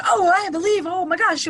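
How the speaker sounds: high, swooping pretend awe; hammed-up wide-eyed amazement; mock gushing. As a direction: imitate a gushing instant convert. Mocks instant believer, contrasted reaction.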